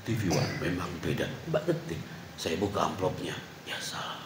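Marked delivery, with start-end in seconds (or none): 0.0-1.3 low, soft slogan read; deep announcer voice. Shown as a demonstration. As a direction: voice it like a TV station ident. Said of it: "Cuma ngomong". (suara penyiar TV yang dalam)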